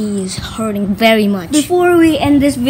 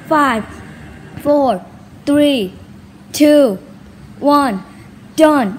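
excited countdown; 3 semitones higher, much slower than usual. Real, not acted. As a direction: count it down with hype. Countdown challenge to viewers.

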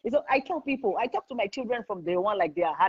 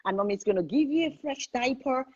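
put-on gentle talk to baby; 3 semitones higher than usual. Shown as a demonstration. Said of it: "Talk to your child".

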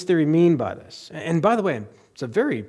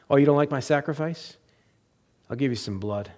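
imagined resentful Cain. Acted. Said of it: "Cain would be saying to God".

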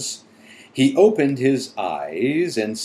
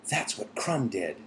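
soft, hushed near-whisper; 7 dB quieter than usual. A narrator's reading. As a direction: say it softly, keeping it hushed. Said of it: "So I guess I should have said".

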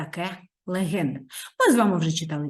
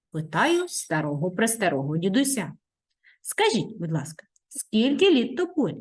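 story narration; 3 semitones higher than usual. A narrator's reading. Reads the legend aloud.

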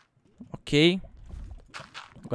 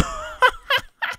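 squeaky laugh. Real, not acted. Laughs at own ugly build.

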